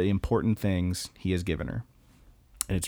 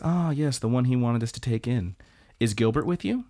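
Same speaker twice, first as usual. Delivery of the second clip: lightly voiced mother; 2 semitones higher than usual. Voicing the mother recognising a name.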